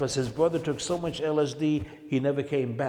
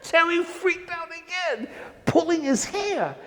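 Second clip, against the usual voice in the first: laughing narration. Real, not acted.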